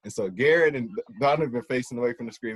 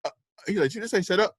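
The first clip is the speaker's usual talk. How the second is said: incredulous teacher; 8 semitones higher, much faster than usual. Retold or imitated. Teacher repeating in disbelief.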